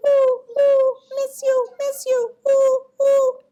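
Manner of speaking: high owl hoots with loud oohs; hooting owl. A narrator's reading. Owl greets returning birds and squirrels, high hooting. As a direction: hoot high to welcome friends back. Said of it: "Al looked up and said".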